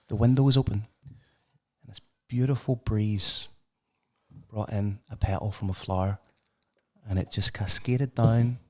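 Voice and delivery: lightly acted loving mum, with long pauses; tender mother. Mother tells child her name story.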